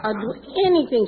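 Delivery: begging through laughter; begging the newcomer to let her sponsor, laughing; laughing plea. Retold or imitated. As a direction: laugh while promising anything.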